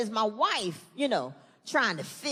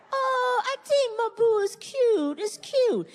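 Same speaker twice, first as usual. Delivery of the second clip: wife cooing; 9 semitones higher, slower than usual. Retold or imitated. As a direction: gush that it's adorable. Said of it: "My wife is like".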